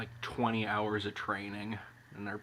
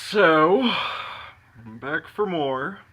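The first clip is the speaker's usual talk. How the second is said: loud, higher, slow return; excited; 7 semitones higher, 12 dB louder, slower than usual. Real, not acted. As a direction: announce your comeback loudly. Returns after quitting the peppers.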